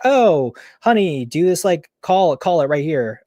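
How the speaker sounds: high, drawn-out fake sweetness; mother urging son to gamble, high mock honeyed coaxing; mock sweet coaxing. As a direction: coo at him like a phony doting mother. Mother coaxes son at casino.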